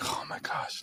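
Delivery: unvoiced, whispered gasp.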